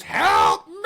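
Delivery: loud, low, strangled mock cry for help; mock scream. Man behind the glass screaming for help, hammed-up loud cry. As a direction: belt out a hammed-up plea for help. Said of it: "And then he just screams".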